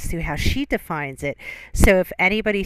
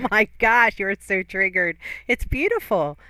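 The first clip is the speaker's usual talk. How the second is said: teasing; 3 semitones higher, 3 dB louder than usual. Real, not acted. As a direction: egg her on with mock delight. Teasing the ranting friend.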